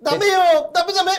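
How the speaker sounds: high put-on comic voice; catchphrase impression. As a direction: squeal out a mock refusal. Comedy duo's catchphrase mimicked.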